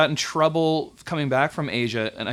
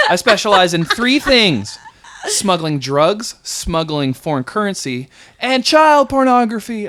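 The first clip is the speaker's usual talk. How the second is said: louder, slow, deliberate proclamation; loud slow announcement; 6 semitones higher, 5 dB louder, slower than usual. Retold or imitated. TSA officer loudly listing his specialties, slow booming proclamation. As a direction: boom each item out for the whole room. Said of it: "don't yell that while talking to me".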